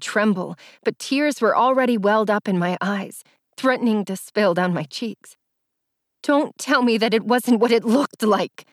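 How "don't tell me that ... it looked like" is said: tearful cracking voice. Acted. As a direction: let the voice crack on it. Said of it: "my voice cracked".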